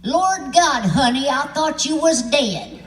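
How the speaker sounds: put-on high, slow old lady gasp; shocked old lady. Old lady patting his hand, high slow shocked drawl. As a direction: drawl it out like a stunned granny.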